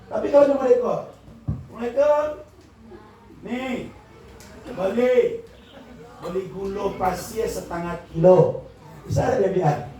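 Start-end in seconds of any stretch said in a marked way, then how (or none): 1.5-8.7 acted shop customer. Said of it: "Allah tu juga gitu".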